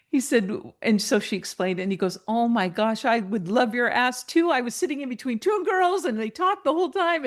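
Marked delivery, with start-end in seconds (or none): 2.3-7.2 rising higher into mild gushing; delighted. Retold or imitated. Husband who sat between two chatty girls, increasingly delighted. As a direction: build from surprise to high, relieved chatter.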